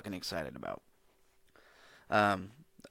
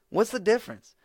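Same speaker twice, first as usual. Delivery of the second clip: much higher and louder, incredulous; exasperated question; 11 semitones higher, 7 dB louder than usual. Real, not acted. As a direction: throw the question out in disbelief. Baffled rant about phones.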